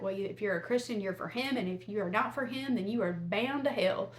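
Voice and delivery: lightly put-on Southern preacher; a hint of Southern pulpit sermonizing; mock Southern preacher laying down judgment. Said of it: "in my best Southern preacher voice".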